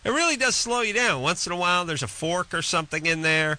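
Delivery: high-pitched incredulous griping; comic exasperation. Real, not acted. Comic rant about microwave technology.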